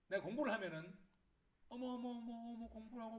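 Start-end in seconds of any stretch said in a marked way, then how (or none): 1.7-3.2 high, cooing exclamations of pleasure; delighted mother. Acted. Mother seeing the child study, delighted. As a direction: coo over it in a high voice. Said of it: "기분이 좋아서 하는데".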